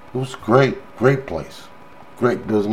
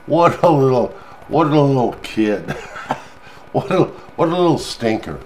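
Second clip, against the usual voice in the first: laughing; 4 semitones higher than usual. Real, not acted. Fond laugh about granddaughter.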